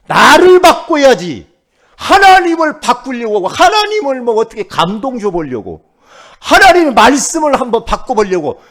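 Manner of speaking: high, loud pulpit exhortation; full-force preaching. Real, not acted. Preacher urging believers to change themselves, full-force preaching. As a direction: drive each phrase out loud and high.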